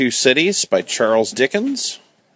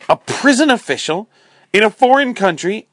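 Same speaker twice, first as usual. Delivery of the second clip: shocked; 11 semitones higher than usual. A narrator's reading. Sister scandalized by brother's job.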